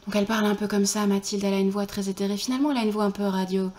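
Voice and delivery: light ethereal radio voice; a hint of an airy radio host; Mathilde. Demonstrating Mathilde, ethereal voice with little volume. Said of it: "pas trop de volume".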